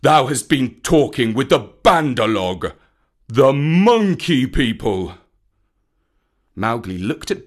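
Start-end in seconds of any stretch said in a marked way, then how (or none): 0.0-5.2 loud, weighty accusation; stern, disgusted old teacher; angry bear. A narrator's reading. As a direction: accuse him, dragging out the last words. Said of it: "he could see the bear was angry".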